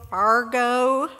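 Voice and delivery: lightly put-on Minnesota vowel in Fargo, ending on a rise; a playful stab at a Minnesota Fargo; hint of a Minnesota accent, just for the joke; mock Minnesota accent. Shown as a demonstration. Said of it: "I'll try to say this in my best accent".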